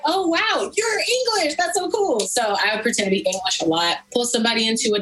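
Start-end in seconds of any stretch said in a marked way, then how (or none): 0.0-2.2 high, gushing mock-impressed voice; mock-starstruck and much higher; impressed customer. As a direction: squeal like a dazzled customer. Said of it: "they'd be like".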